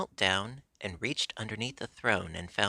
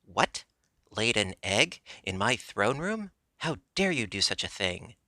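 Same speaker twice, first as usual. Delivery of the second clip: fury; 2 semitones higher than usual. Acted. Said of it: "in a voice of fury".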